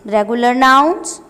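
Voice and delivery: loud, slow word-by-word reading; classroom drill. Shown as a demonstration. Teacher drilling plurals for pupils, loud and clear. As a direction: drill each singular and plural form for the class. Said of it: "Let's fill the table".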